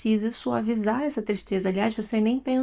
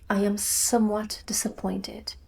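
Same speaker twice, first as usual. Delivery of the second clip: lightly put-on posh whisper; mock aristocratic English aside; a hint of an English aristocrat, whispered; posh English lady; 4 dB quieter than usual. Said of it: "me sinto parte da aristocracia inglesa".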